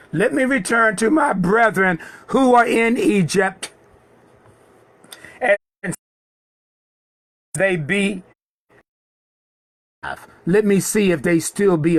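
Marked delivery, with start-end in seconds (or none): 0.1-10.3 acted plea. Moses asks Jethro to let him go, mildly pleading. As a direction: lift the voice in an acted appeal.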